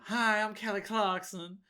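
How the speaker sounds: lightly mocked Texas twang; a hint of Southern accent. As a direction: imitate a Southern girl introducing herself. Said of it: "She's got a twang to her".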